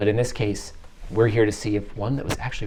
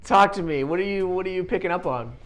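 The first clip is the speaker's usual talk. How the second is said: excited; 10 semitones higher, 5 dB louder, slower than usual. Real, not acted.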